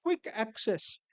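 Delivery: deliberate, emphatic "quick" before "access"; stress on QUICK. Real, not acted. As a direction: repeat it with weight on "quick". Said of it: "I emphasize the word quick".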